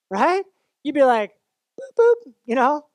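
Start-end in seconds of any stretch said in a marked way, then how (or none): 1.8-2.3 high, louder car-lock beeps; beeping car lock. Pretend. Owner locking the car at night, with high mock beeps. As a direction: chirp like a key fob. Car alarm beep sound.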